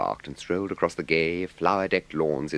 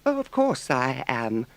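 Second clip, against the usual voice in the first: loyally; 10 semitones higher than usual. A narrator's reading. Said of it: "said the Mole loyally".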